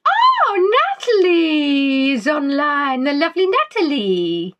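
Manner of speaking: high, loud delighted "Oh!" then a gushing welcome; excited greeting. Real, not acted. Host spots Natalie joining the chat, excited gushing. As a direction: greet her like a long-lost friend. Greeting a viewer who joined.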